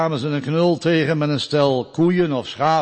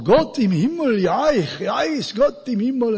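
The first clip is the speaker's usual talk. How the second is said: put-on high, loud voice of a simple mountain boy; 11 semitones higher, 6 dB louder than usual. Boy repeats what the pastors taught him, high and loud. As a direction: play the simple boy proudly saying his lesson.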